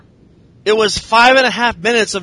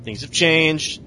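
low, soft, halting brush-off; mock-formal refusal, dropping lower and quieter; cool rebuff; 7 semitones lower, 7 dB quieter, slower than usual. Stephanie turning down a hug backstage, cool rebuff. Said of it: "And she's all".

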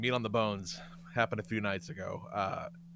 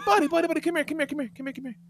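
coaxing; 12 semitones higher, much faster than usual. Retold or imitated. Father coaxing upset son.

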